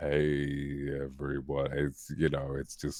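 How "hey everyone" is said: natural very low, deep voice, lower. Showing the lowest natural pitch: true deep voice. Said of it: "sort of true deep".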